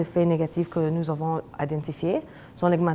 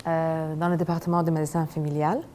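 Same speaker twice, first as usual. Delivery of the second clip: French spoken as a second language; careful non-native French; foreign accent in french. Real, not acted. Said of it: "mon français n'est pas très fort".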